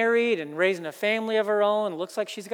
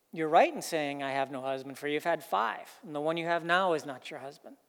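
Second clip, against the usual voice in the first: gentle voice of Jesus; 3 semitones lower, 3 dB quieter than usual. Shown as a demonstration. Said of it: "something like this".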